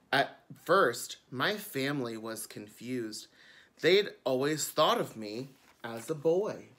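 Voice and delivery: bright storytime reading; children's book narration. A narrator's reading. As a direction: read it like a picture book to kids. Reads the book aloud.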